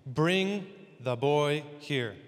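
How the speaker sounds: put-on slow, weighted BRING THE BOY HERE; measured command. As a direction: give each part of "Bring the boy here" its own beat. Reads Jesus's command aloud.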